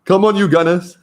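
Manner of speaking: laut und hoch gerufen wie ein Fußballfan; Fangesang. Real, not acted. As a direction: feuer das Team an wie auf der Tribüne. Football chant for the trophy.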